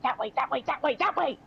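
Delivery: faint little guiding voice; twinkling breathy fairy whisper. Acted. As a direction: lure them onward in a tiny voice. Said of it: "you hear a little voice that's like".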